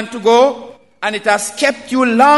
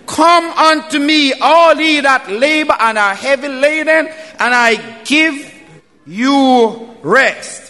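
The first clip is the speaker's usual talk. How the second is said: voice of Jesus calling; 3 semitones higher than usual. Retold or imitated. Preacher voicing Jesus calling sinners, fervent raised call. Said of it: "you hear the voice of Jesus say".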